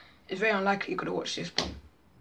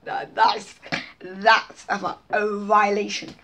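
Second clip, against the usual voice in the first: loud, emphatic hyped reaction; excited; 7 dB louder, slower than usual. Real, not acted. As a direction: call it out, impressed. Reacting to the bar.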